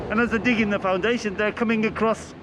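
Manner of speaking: muffled by a face mask; talking through a mask. Real, not acted. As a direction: speak through a covering mask. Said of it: "it's hard to talk with this mask".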